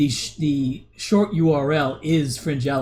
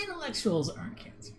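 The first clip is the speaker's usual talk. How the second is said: mock crying; 9 semitones higher, 10 dB quieter than usual. Fake crying at chat message.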